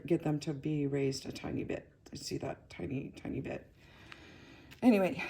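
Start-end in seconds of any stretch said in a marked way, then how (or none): 0.1-3.7 breathless, running out of air; out of breath. Real, not acted. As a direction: speak short of breath. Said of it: "I'm almost out of breath".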